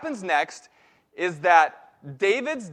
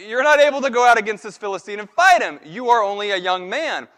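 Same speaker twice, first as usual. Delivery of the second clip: louder, faster and higher, brushing him off; dismissive king; 3 semitones higher, 9 dB louder than usual. Retold or imitated. Saul telling young David he can't fight, loud and fast. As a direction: talk him down like a boy.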